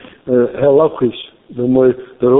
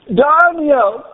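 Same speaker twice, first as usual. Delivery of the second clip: higher anxious call of a king; the king calls down into the lions' den; 9 semitones higher than usual. Retold or imitated. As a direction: call the name out fearfully as the king. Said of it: "Kun je het horen in zijn stem?".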